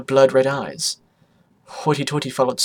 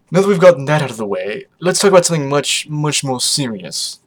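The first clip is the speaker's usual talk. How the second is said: deadpan; 6 dB louder than usual. Acted. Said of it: "he deadpanned".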